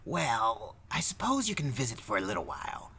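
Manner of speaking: lightly voiced reluctant clerk; hedge, trailing into a breath on the last word; grudging clerk. Clerk allowing a short visit, mildly grudging.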